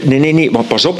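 laughing while protesting; chuckling through the words. Real, not acted. Laughing at his own story.

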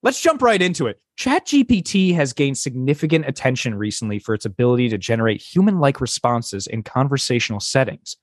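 scripted podcast host voice; podcast host read. Acted. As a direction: read it like a tech show host. Reads AI script as host Lisa.

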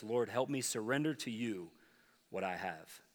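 quiet prayer. Shown as a demonstration. Pastor quietly demonstrates the second prayer to the congregation, hushed and tender. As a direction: pray it gently, almost under the breath. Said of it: "The second prayer is this".

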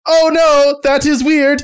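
surprised. Acted. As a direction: caught off guard, mildly alarmed. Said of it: "Teddy goes".

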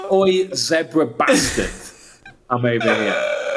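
slow mock Geordie yell, laughing; Geordie impression. Friend mocking John's Geordie shout at the zebra. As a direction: stretch it out in a hammed-up Geordie. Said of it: "that's so Geordie".

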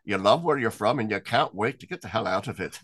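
lightly put-on Irish accent; a hint of a Cork priest's Irish accent; bad Irish accent. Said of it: "pardon my bad Irish accent".

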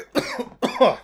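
sputtering cough on spit; choking cough. Real, not acted. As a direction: cough as if something went down wrong. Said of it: "Choking on my own spit".

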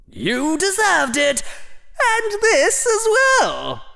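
triumphant hat voice. Acted. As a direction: deliver the parting blow with relish. The hat's final jab.

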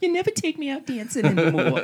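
put-on high complaining old woman voice, laughing; a nagging grandma, pitched high.

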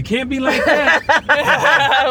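high, slow laughing scold. Pretend. Mocking someone's driving, laughing.

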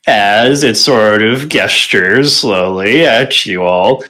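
normal talking voice

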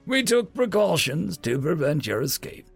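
high, gloating villain's explanation; haughty old magistrate crowing; boastful. A narrator's reading. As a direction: boast over a trapped foe. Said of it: "the old magistrate boasted".

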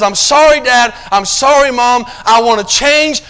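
lightly voiced repentant child. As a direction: plead like a sorry kid coming home.

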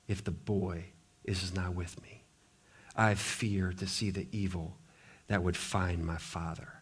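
hushed desperate plea to his lord; quiet plea. Acted. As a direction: beg humbly, voice dropping away. Judah pleading before Joseph.

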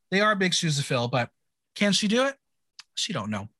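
lightly performed episode-recap narration; measured podcast recap read; scripted recap read. Acted. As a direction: read it out like a recap host, names set apart.

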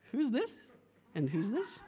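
mock puzzled, voice sliding up at the end; puzzled newcomer. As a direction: play bewildered at uninvited guests. Acts out meeting Jesus's friends.

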